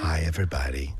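breathy whispered greeting. Acted. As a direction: whisper it to the listeners.

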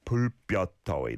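"불볕더위" run together fast. Shown as a demonstration. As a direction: say "불볕더위" quickly as one connected phrase. Teacher repeats phrase more quickly.

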